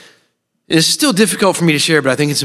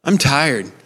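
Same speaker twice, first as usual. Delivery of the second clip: desperate prayer; slower than usual. Retold or imitated. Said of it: "crying out to God and going".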